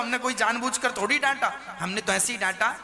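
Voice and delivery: chuckling through the words; laughing. Acted. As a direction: laugh it off, relieved the trick worked. Husband laughing after ruse worked. (पति हँसते हुए पत्नी से कहता है कि अब मत रो, हँसी के साथ)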